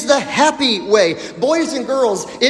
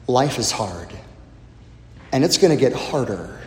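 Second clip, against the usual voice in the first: put-on kids show host; 4 semitones lower than usual. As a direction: talk tenderly to the kids. Addresses children in the congregation.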